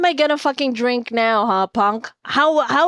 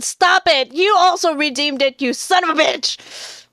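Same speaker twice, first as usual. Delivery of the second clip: higher, exasperated outburst; angry; 4 semitones higher than usual. Real, not acted. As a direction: snap at a teasing viewer, mock outrage. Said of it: "I'm angry".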